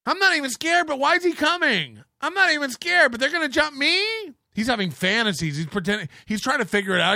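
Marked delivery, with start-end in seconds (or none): 0.1-4.0 high-pitched mimicry of nervous denial; hammed-up anxious insistence; mock worried protesting. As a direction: imitate someone protesting far too much. Mimicking men who claim not scared.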